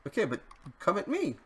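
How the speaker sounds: quick taunting call to the mob. Real, not acted. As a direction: dare the mob to come at you. Taunting mobs to attack him.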